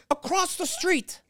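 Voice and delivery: high, slow mock shout; imitating Susie. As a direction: drag it out like a clueless friend. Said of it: "She says".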